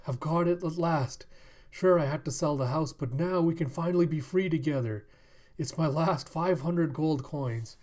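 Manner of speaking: lightly voiced, eager old suitor; a hint of a devoted old man; lovestruck old man, hopeful.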